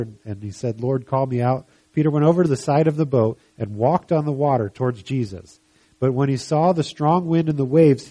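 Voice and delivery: emphatic Bible story narration; scripture reading. Acted. Preacher telling of Peter walking on water, emphatic reading. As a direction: read the passage out to a congregation.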